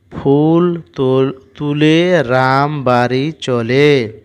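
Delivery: put-on slow, careful reading for young learners; syllable by syllable classroom reading; slow reading aloud. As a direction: read each word out slowly for a child.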